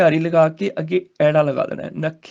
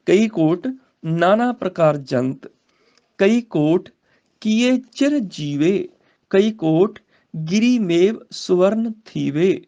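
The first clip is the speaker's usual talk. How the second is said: slow, deliberate recital with long pauses; slow scripture recitation; slower than usual. Shown as a demonstration. Teacher modelling the verse for students, slow and deliberate. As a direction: lay out each phrase slowly.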